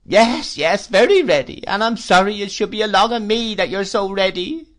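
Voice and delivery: high, loud plaintive widow's whine; Missus Gummidge. Acted. Mrs Gummidge pities herself at dinner, high whine. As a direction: whimper it like a self-pitying old widow.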